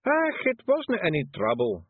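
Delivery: high, slow cheerful brogue; cheerful Scots. Acted. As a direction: brush it off brightly in Scots. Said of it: "said Rob Anybody cheerfully".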